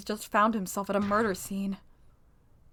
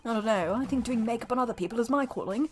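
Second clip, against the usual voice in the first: put-on British accent. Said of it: "he's British".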